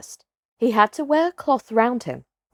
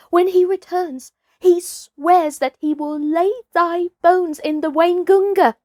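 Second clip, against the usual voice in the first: lightly voiced wolf; 8 semitones higher than usual. A narrator's reading. Wolf warns of Shere Khan.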